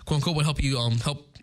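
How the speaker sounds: tripping over the words; stumbling, repeating words in excitement; stuttering. Real, not acted. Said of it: "I'm stuttering so hard".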